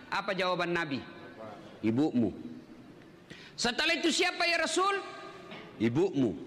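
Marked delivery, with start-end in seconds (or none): 1.8-2.3 the Prophet's answer. Acted. Nabi answers questioner, low. 3.5-5.0 the questioner. Acted. Questioner asks Nabi, high. 5.8-6.3 the Prophet's answer. Acted. Nabi answers again.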